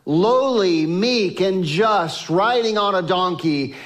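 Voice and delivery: mild mock proclamation of the crowd; crowd crying out. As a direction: lift it like a crowd hailing a king. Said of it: "all the people cried out".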